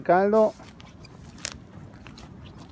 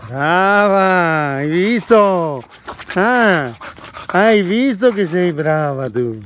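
slow fond praise; praising a dog; much slower than usual. Real, not acted. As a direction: praise her slowly, tenderly. (lode affettuosa al cane)

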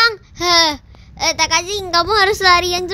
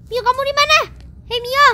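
calling out; 8 semitones higher than usual. Acted. Calling out for Mio.

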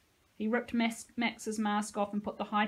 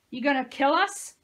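loud, higher raging taunt; 5 semitones higher, 9 dB louder than usual. Acted. Josie keeps taunting the dead soldier, raging. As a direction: hurl the question at him in fury.

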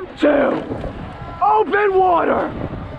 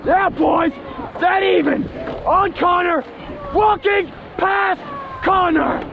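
urgent call; 3 semitones higher, slower than usual. Real, not acted. The speaker calling a move.

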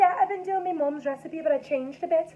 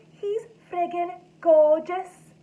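swooning; 4 dB louder, slower than usual. Acted. Swooning over Aquaman.

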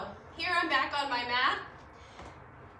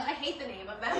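laughing; 2 semitones lower, faster than usual. Real, not acted. Joking about exercise name she hates.

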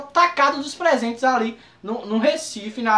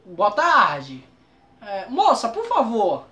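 1 polite customer; 3 semitones lower, slower than usual. Retold or imitated. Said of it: "Você tem que chegar assim".

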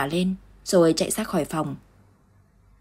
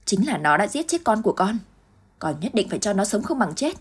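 vicious hiss; 3 semitones higher than usual. Acted. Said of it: "Dung rít lên từng hồi độc ác".

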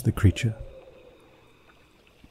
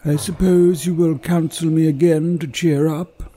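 sad sigh; 10 semitones higher, 4 dB louder than usual. A narrator's reading. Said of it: "sighs the cloaked figure".

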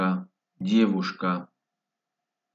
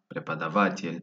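"prepadavatl" with the weight on "va"; "prepadavatl", voice accent on the syllable "va"; stress on VA; 2 semitones lower, 3 dB quieter than usual. Shown as a demonstration. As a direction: lean on "va" in "prepadavatl". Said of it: "va el acento de voz en la va".

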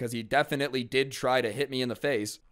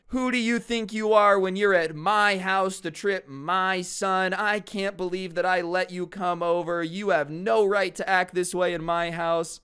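higher, sustained scolding tirade; angry mom; 5 semitones higher, 4 dB louder than usual. Retold or imitated. Friend's mom laying into a kid who tripped her son, angry. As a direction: lay into the kid in a raised pitch. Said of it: "starts laying into me".

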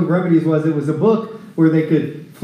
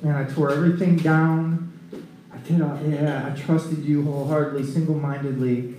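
subdued, lower and soft; humbled prayer; 4 semitones lower, 6 dB quieter than usual. Acted. Hezekiah praying as he remembers, humbled and subdued. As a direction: confess quietly, as if remembering. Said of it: "he's humbling himself".

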